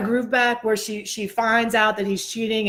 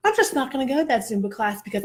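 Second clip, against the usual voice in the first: higher-pitched mock huff; aggravated refusal; 4 semitones higher, faster than usual. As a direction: dig in, retelling a stubborn refusal. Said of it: "super mad, aggravated state".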